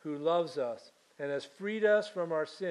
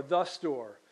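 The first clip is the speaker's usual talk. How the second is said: THE set apart as its own word before "store"; stress on THE; 2 semitones lower than usual. Shown as a demonstration. Preacher showing English article singles out one store, stress on THE. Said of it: "Not just any store".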